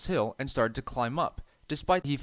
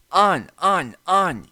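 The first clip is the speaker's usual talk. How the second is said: high loud taunting chant; gleeful yell; 7 semitones higher, 7 dB louder, slower than usual. A narrator's reading. Trucks pushing James faster, yelling with glee. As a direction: urge him on with mischief. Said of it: "yelled the trucks".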